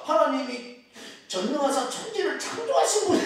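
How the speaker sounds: high-pitched mock recitation breaking into laughter; amused flustered answer. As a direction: blurt out the memorized creed, tickled by it. Retells his flustered baptism answer.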